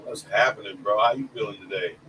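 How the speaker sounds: muffled, underwater-sounding microphone; hollow echo like an empty room; echoey room mic. Real, not acted. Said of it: "you sound like you're underwater a little bit".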